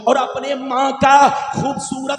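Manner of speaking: rhythmic, chant-like sermon with stretched key words; declamatory preaching. Real, not acted. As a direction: proclaim sacred words to a congregation. Preaches the hadith translation rhythmically. (लयदार, जोशीली तक़रीर)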